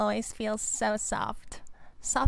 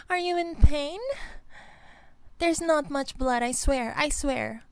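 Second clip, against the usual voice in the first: higher, flustered apologising; panicked apology; 3 semitones higher than usual. Acted. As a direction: blurt it out, alarmed at what you did. Horrified apology after biting boyfriend.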